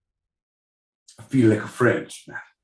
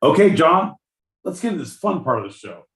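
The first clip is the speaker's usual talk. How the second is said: louder punchy host redo, quick; louder, quick announcer retake; louder, faster retake; 7 semitones higher, 3 dB louder, faster than usual. Shown as a demonstration.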